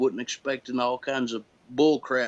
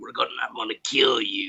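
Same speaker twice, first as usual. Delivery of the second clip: put-on deep, menacing tough-guy voice. An actor showing how he talks in the movie, in a deeper voice. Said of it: "I just with a deeper voice".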